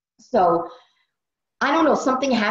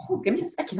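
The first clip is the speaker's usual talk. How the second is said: a touch choked, higher and much softer; welling up; 8 semitones higher, 6 dB quieter, much faster than usual. Real, not acted. Leader telling the team about her kids, getting emotional. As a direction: catch yourself as tears come. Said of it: "I don't know why I'm getting emotional".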